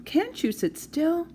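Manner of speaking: high, slow exasperated scolding. Acted. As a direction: drag out the complaint. Mother scolding child.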